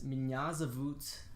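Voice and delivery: Меня зовут said slowly for learners; pronunciation demo. Shown as a demonstration. Teacher repeating how to say my name is, slow pronunciation demo. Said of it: "I'm gonna say it again".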